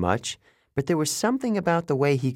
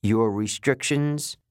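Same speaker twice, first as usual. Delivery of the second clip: warning; slower than usual. Acted. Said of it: "he warned".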